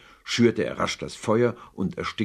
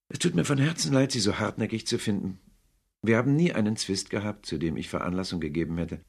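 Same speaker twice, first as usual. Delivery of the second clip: a lightly voiced young nephew, sincere and pleading; earnest nephew; 3 semitones higher than usual. Nephew wishes his uncle a merry Christmas, earnest plea. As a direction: plead gently but firmly.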